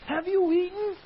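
loud, high accusing shout; angry God. Acted. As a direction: bark it like an angry judge. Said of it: "you can hear it that way".

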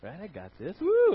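lightly mocking a proud believer; prideful. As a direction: act puffed up with yourself. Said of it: "a little bit prideful".

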